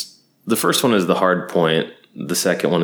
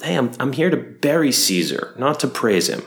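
higher, chatty bro take on the famous line; casual modern paraphrase; 5 semitones higher than usual. Retold or imitated. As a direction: toss it off like a buddy. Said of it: "Mark Antony's like".

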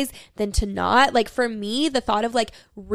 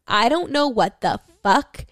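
mock temper tantrum; slower than usual. Yelling at the universe in a playful mock tantrum. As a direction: scold the universe in pretend outrage. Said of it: "throwing a temper tantrum at the universe".

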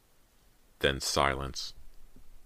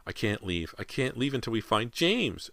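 raised, pleading mother's voice; pained protest; 7 semitones higher than usual. A narrator's reading. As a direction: protest through the pain. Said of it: "Missus Fraser protested".

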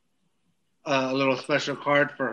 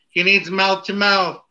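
higher mock emergency call; pretend yelling; 5 semitones higher, 4 dB louder than usual. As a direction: call out in playful alarm. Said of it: "I'm gonna be yelling".

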